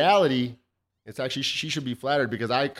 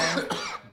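just swallowed a bug; 4 semitones higher, 7 dB quieter than usual. Real, not acted. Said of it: "I ate a fly".

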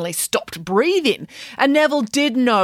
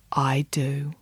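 soft breathy whisper; 5 semitones lower, 5 dB quieter than usual. Acted. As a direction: whisper it dreamily. Princess's soft acceptance.

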